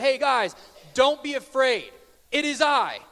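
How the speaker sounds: a nobody shouting across the water, lightly voiced; random stranger. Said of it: "some random dude was walking on water and said".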